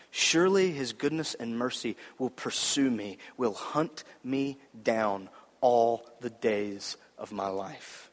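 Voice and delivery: measured verse, slowing and dropping away; preacher's deliberate, fading psalm recital; scripture recital. Acted.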